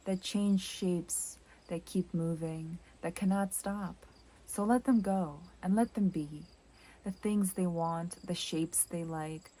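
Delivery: measured, reflective poetry voice; poem reading. Acted. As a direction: read it as a poem, line by line, letting each phrase settle. Reads the next poem aloud.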